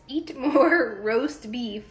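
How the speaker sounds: slow, laughing through the words; laughing read-out. Real, not acted. Wife reading husband's letterboard, laughing slowly. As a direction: read it out, cracking up.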